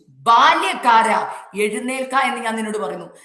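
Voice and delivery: acted divine command. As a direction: call out a command as the Lord would. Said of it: "കർത്താവ് കൽപ്പിച്ചു".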